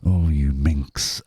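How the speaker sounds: mock scolding. Retort to cheeky comment.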